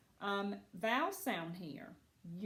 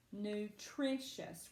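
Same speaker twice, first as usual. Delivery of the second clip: slow "Nutritious" with the stress on its second syllable; much slower than usual. Shown as a demonstration. Teacher asking students to find the accent in Nutritious, stress on second syllable. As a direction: draw out "Nutritious", leaning on the middle syllable. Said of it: "Where is that accent?".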